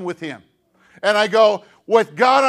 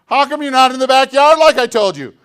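louder, higher mock scold; a parent calling the kid out, hammed-up; dad raising his voice at the three-year-old; 4 semitones higher, 8 dB louder than usual.

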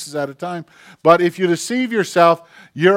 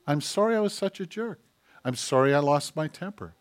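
soft, earnest sorry; acted contrition, hushed; sincere apology; 8 dB quieter than usual. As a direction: apologize quietly to a child and mean it. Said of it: "and really mean it".

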